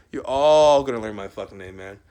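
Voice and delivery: boastful shouted threat at his haters; threatening shout. Real, not acted. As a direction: yell it at the crowd as a threat.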